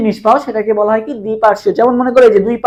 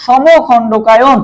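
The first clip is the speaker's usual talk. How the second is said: সমখণ্ডকায়ন spelled out very slowly, each syllable separate; slow syllable-by-syllable term; much slower than usual. Shown as a demonstration. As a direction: stretch সমখণ্ডকায়ন out syllable by syllable for the class. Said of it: "এই জন্য কেঁচোর খণ্ডকায়ন কেমন?". (সমখণ্ডকায়ন খুব ধীরে, প্রতিটি অক্ষর আলাদা করে)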